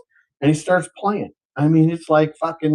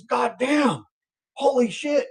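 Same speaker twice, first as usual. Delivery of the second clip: high-pitched astonishment, softer than a shout; amazed swearing; 7 semitones higher, 6 dB quieter, slower than usual. Acted. Guy seeing genie come out, high astonished swearing. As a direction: awestruck swear, pitched well up.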